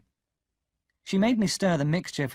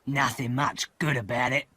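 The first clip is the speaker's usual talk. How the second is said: gruff-voiced convict, gloomy; a weary escaped convict grumbling. A narrator's reading. Convict answering the boy on the marsh, glum.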